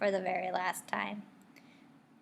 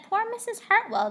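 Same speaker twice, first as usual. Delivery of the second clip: high, louder mock-sad; higher, louder mock sadness; mock pity; 11 semitones higher, 4 dB louder than usual. A narrator's reading. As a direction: pity her theatrically. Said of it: "It said".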